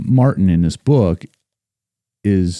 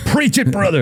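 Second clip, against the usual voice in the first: church call-out; 10 semitones higher than usual. Retold or imitated. Call-out in Black church worship.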